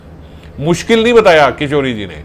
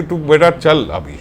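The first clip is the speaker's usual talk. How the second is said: mild threat. Acted. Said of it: "ऐसे धमका रही है".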